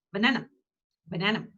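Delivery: Banana with weak first and last vowels; only the middle of Banana gets a full vowel; fast schwa. Shown as a demonstration. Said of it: "it's very fast sound".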